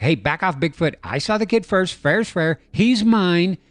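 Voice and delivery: hammed-up bully bear rising to a loud "He's mine"; territorial bear. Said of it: "the bear's like".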